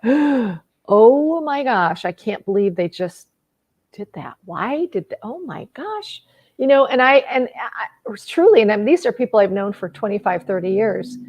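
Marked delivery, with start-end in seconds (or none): 0.0-6.2 very slow, drawn-out "Oh my gosh" in dismay; replaying stunned disbelief at a friend; shocked disbelief. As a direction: let the shock stretch the words out. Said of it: "it was like".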